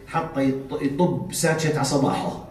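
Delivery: the saying in a Jordanian Arabic accent. Shown as a demonstration. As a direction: quote it the Jordanian way. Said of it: "powerful expression in, in Jordanian accent".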